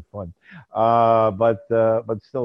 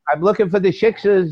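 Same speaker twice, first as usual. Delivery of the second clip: put-on Jewish accent; 3 semitones higher than usual. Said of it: "that nice Jewish accent".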